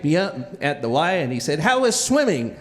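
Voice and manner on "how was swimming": lightly voiced dad, pitched higher; dad's question. Dad picking the kid up, lightly voiced question. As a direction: imitate a dad asking lightly.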